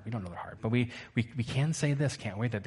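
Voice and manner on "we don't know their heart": dropped to a near hush; soft final repeat. Shown as a demonstration. Preacher closing the refrain softly to the church. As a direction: let it fade quietly. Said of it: "Would you say it with me?".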